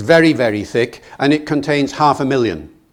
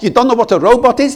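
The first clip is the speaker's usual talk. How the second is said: high, fast, disbelieving question; incredulous driver; 10 semitones higher, 5 dB louder, faster than usual. Retold or imitated. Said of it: "And he says".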